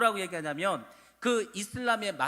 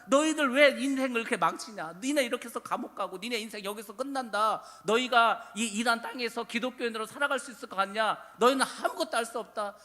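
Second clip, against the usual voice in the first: raised-voice scolding, as a retold rant; imitated angry judge; 3 semitones higher, 3 dB louder than usual. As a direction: berate them like an irate judge, moderately heated. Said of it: "판사가 막 화가 났습니다".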